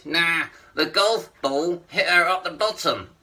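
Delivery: puppet line through still lips, "golf ball" slurred to "kolfp"; "golf ball hit her up the bottom" slowed, lips barely moving; ventriloquist puppet voice. Acted. Ventriloquist's puppet telling the comic the punchline. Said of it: "Say that again?".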